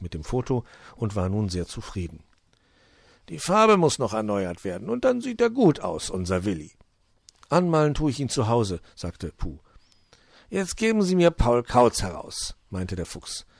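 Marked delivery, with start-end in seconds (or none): 3.3-6.7 high, loud, jolly fox voice; high-pitched welcoming fox; cheerful fox. Acted. Fox voice held. 7.5-8.8 high, loud little gnome voice; small high gnome voice; gnome Puh. Acted. Puh voice held. 10.5-12.6 high, loud, jolly fox voice; high-pitched welcoming fox; cheerful fox. Acted. Fox voice held.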